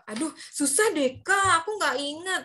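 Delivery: put-on confused kid. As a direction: play a student who gives up.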